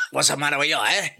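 hammed-up Mexican accent that slips into Italian; mock Italian-Mexican accent. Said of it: "Like that".

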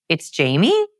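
JAMIE rising like a question; question inflection. Retold or imitated. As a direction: ask your own name, pitch climbing on JAMIE. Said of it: "When he asked his own name".

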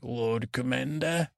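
slow, weighty, lightly voiced Stannis; a hint of stern Stannis, said slowly; Stannis's loaded look. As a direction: drag out the title with a silent stare behind it. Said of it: "Stannis is like".

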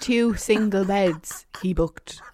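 incredulous whisper; whispered disbelief. Real, not acted. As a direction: hiss it in disbelief. Outraged recollection.

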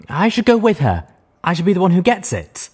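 loud, pleading whine; whining. A narrator's reading. The scrawny unicorn whining to the boss. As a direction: whine to be picked. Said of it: "the brown unicorn whined".

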